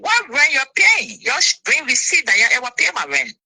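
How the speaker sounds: mock-outraged comeback; indignant retort. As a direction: throw the accusation back at her. Retorting to a lie about rent.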